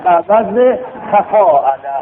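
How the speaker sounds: slow, syllable by syllable; slow pattern drill. Shown as a demonstration. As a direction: spell out the word tamarroz and its pattern. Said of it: "تمارض بر وزن تفاعله". (آهسته و شمرده)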